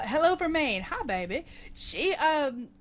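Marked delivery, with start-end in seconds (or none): 0.0-1.4 lightly imitated Boston waitress accent. Diner waitress greeting customers, mock Boston accent. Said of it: "with the heavy Bostonian accent".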